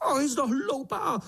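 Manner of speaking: very high, panicked crying cries; frantic ant. Acted. Swallowed ant shrieks at the beetle in panic. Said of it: "Volal mravenec celý pryč".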